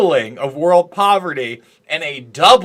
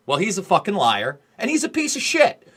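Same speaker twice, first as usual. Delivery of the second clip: emotional outburst; 2 semitones higher than usual. Real, not acted. Host venting to John, real emotional anger. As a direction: lose your cool at the liar. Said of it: "I'm getting a little emotional here".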